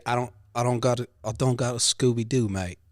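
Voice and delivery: lightly attempted Cockney; casual imitation of Cockney slang talk; a hint of Cockney on the phrase; Cockney accent. Shown as a demonstration. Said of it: "like, you know, Cockney".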